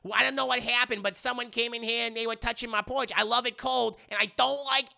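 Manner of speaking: lightly voiced Jewish mother accent, quick; a hint of a kvetching Jewish mother accent; old Jewish mother accent. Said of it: "she sounds like an old Jewish mother".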